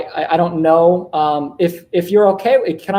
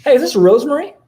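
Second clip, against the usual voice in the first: bright, high and louder opener to spark curiosity; high-pitched greeting; 8 semitones higher, 5 dB louder than usual. Real, not acted. Cold caller greeting Rosemary, high-pitched and curious. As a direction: pitch the hello way up. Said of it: "I did the little, uh, high-pitched".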